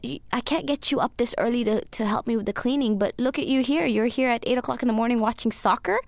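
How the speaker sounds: lightly voiced scolding mom; scolding mother. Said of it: "she basically said that".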